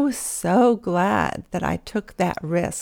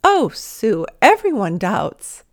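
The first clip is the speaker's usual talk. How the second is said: matter of fact; 6 dB louder, slower than usual. Retold or imitated. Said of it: "so matter of fact".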